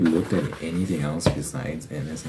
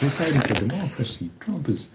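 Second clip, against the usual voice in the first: much higher mock pundit voice, hammed-up; mocking liberal media; 10 semitones higher than usual. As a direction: parody a self-righteous news anchor. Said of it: "it's like, it's like".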